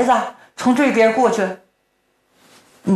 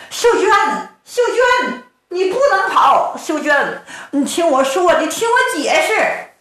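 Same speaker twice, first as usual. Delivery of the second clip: calling after her; 5 semitones higher than usual. Acted. Zhao Yu calls after fleeing wife.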